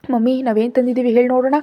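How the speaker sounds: little daughter teasing mummy with a guessing game, quick and high; excited little girl. Acted. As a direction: bounce it like an excited kid with a secret. Little girl teasing her mother.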